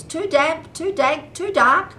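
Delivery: high squealing little mouse; squeaky mouse. Acted. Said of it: "Mouse squeals".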